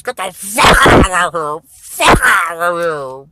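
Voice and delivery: loud angry shout to get out; furious yelling. Acted. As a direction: bark him out of the room. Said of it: "And the guy says".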